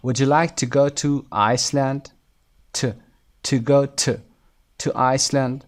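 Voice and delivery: don't draw out the oo in "to", keep it unstressed; weak "to". Shown as a demonstration. Teacher showing students how "to" drops in a question, weak "to". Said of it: "توها اینجا صداش پایین میاد، مثل توی کامل نیست".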